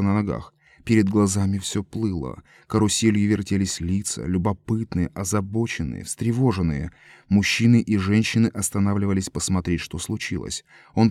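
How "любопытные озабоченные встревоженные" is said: plain reading voice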